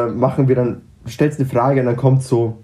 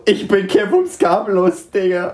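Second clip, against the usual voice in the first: higher, slower mock-dumb voice; mock clueless; 6 semitones higher than usual. Teasing a friend with a mock-dumb exam answer, higher voice. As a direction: play the clueless exam candidate, lightly. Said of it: "Und du so".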